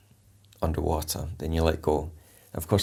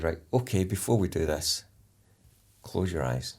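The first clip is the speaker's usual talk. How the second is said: softer, quieter soothing voice; calm again; 5 dB quieter than usual. Retold or imitated. Instructor calming trainee before capsize, softer and quieter. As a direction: bring them back down gently. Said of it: "you've calmed it back down there".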